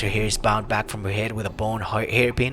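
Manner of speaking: story narration. Acted. Reads the quest description aloud.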